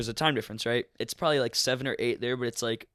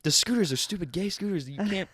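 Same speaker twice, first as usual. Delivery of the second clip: protesting; 7 semitones higher than usual. Retold or imitated. Retold protest shouted back at friend.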